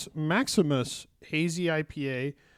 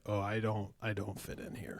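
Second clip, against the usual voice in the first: self-conscious; 5 semitones lower, 11 dB quieter than usual. Retold or imitated. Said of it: "you're like".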